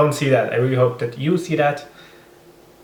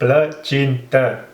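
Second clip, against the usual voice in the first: slow and drawn out; much slower than usual. Acted. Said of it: "And it's not actually one dish".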